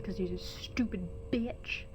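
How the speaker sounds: unvoiced teasing whisper. Real, not acted. Slip the insult in a whisper. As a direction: streamer whispers a jab at her brother Tyler. Jab at brother.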